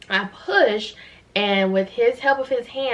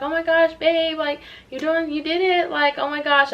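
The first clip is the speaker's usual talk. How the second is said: high, gushing imitation; overjoyed wife; 8 semitones higher than usual. Wife to new mother after the birth, high imitated joy. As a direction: imitate a partner overcome by the birth, pitched way up.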